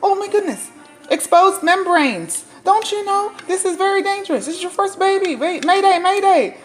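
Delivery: high, loud frantic husband; mock panic of a usually calm man; calm husband suddenly frantic, high and loud; panicked husband. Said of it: "He's like".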